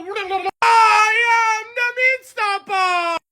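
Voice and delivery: slow, stretched imitation of the catchphrase; mock Meat Stopper. Friend mocks the big guy's catchphrase to the teacher. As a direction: mimic the big guy's line slowly. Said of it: "get his beans and go".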